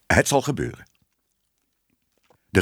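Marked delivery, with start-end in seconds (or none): 0.1-0.9 mildly relieved promise. A narrator's reading. Editor assuring Ellemeet, mildly relieved. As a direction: promise it with a touch of relief, pitch lifted. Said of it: "zei de hoofdredacteur opgelucht".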